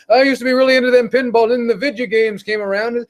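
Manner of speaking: put-on old guy voice. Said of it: "same fucking old motherfuckers that say".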